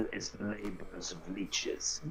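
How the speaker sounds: put-on slow, heavy Russian accent. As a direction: speak it like a grim Russian. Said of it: "Since I was doing a Russian accent".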